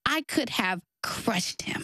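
slow, whispered confession; hushed whisper. Real, not acted. Telling the host how she could have hurt her dad, slow whisper. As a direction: drop to a hush on the confession.

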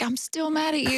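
high, whiny upset protest; mock tearful anger. Wife imitating herself crying at her husband's jokes, mock tearful. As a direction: act mad through laughter and tears. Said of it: "laugh even while I was crying".

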